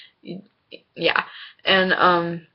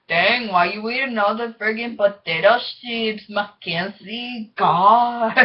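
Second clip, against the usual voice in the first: exaggerated Hispanic accent, drawn out on the name; mock complaint in a Hispanic accent, breaking into laughter; 3 semitones higher, slower than usual. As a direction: tease with a put-on Hispanic accent. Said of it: "making fun of his Hispanic accent".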